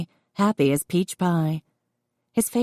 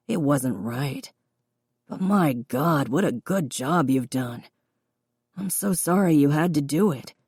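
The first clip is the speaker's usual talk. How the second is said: remorseful father; 3 semitones lower than usual. Acted. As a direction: apologise to your daughter, gently remorseful. Father apologising to his grown daughter.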